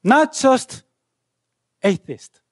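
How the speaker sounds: rebellious student declaring war on God; defiant proclamation. Retold or imitated. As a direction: proclaim it up high and forcefully. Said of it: "And I proclaimed myself".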